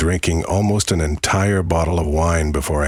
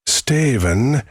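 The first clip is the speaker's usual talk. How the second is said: higher, gravelly witch call; 8 semitones higher than usual. Acted. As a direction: call his name like a witch. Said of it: "that same low and gravelly voice".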